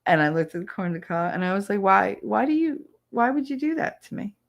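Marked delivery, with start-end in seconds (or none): 1.8-4.4 put-on whiny kid self. Child self quoted to grandmother.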